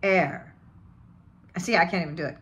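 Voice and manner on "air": British "air" with no R; British dropped R. Shown as a demonstration. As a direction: say air as a Brit would, R dropped. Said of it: "just drop the R and say".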